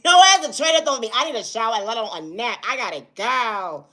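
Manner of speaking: high, laughing, then winding down; laughing sign-off. Real, not acted. Vlogger laughing as she signs off, high and bright. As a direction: laugh it off and wrap up.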